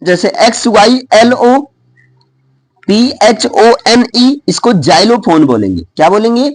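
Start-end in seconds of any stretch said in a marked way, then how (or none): 4.7-5.4 "जाइलोफोन" begun with a J sound. Shown as a demonstration. Teacher showing X's J sound in "जाइलोफोन". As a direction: say "जाइलोफोन" with initial X voiced as J. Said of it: "एक्स का sound जा से भी निकलता है".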